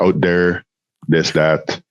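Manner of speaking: "out there, this, that" with hard d for th; local dialect. Shown as a demonstration. Listing local dialect words, "there, this, that" with d sounds. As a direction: say "there, this, that" as "dere, dis, dat". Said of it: "the local dialect kinda sounds like".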